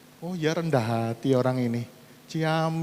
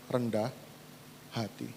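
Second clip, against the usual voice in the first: soft humble tone; 4 semitones lower, 11 dB quieter than usual. Acted. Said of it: "menjadi Tuhan yang lemah lembut".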